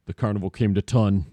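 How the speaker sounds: low-pitched bad German accent. Shown as a demonstration. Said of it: "my crappy German accent in two pitches".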